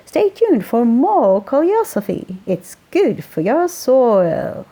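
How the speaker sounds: a hint of Welsh, slowing into the final pun; Welsh accent. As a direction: sign off the radio show in a light Welsh accent. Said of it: "His Welsh accent carried the pun".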